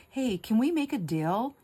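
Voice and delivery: politely wheedling, drawn out; sweet and nice. Retold or imitated. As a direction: ask it extra sweetly and nicely. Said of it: "trying to be very sweet and nice".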